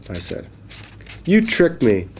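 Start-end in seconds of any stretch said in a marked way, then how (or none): 1.2-2.1 fish accusing. Acted. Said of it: "said the fish".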